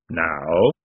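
slow, measured voice of the reaper; Death. A narrator's reading. Reaper addresses a dead woman, slow and grave. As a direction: speak slowly, each word weighed.

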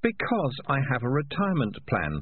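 a pleased, scheming tomcat; smug cat. Acted. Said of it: "thought Morris".

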